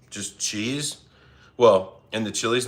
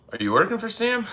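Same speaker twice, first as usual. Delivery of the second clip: mock suspicion; 12 semitones higher than usual. Real, not acted. Teasing a chatter about Sam.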